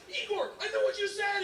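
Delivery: laughing quote, pitched high; cracking up mid-line. Retold or imitated. Retelling mafia bar scene, laughing.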